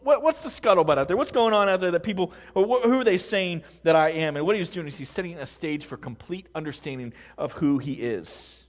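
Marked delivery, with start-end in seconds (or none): 0.0-4.3 chatty, higher-pitched nosy question; casual question. Retold or imitated. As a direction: strike up gossip offhandedly, voice lifted. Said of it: "sparked the conversation with a casual question".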